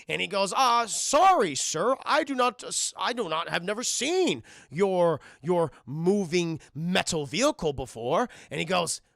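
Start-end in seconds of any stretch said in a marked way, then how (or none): 0.6-8.3 slow, loud, stilted role-play voice; put-on formal reenactor; old-timey townsperson in character. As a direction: stay stubbornly in character, drawing words out. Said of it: "Can you just drop character".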